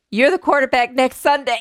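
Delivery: cracking up on the last line; laughing through the punchline. Real, not acted. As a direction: barely hold it together for the punchline.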